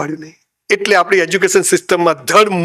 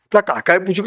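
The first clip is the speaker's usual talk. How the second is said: usual speaking voice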